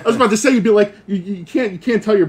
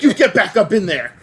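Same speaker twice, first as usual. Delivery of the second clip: laughing cop quote; 3 semitones higher than usual. Retold or imitated. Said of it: "It's like".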